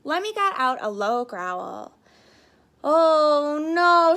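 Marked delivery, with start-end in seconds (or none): 2.8-4.1 high, loud cry of dismay; shouting. Acted. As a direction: shout it out in alarm. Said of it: "shouted another contestant".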